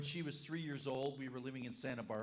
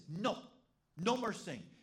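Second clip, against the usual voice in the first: little boy's mock order; 4 semitones higher than usual. Little boy telling Grace to stop singing, mock bossy. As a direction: play the boy shutting down the singing. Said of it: "he goes to her and says".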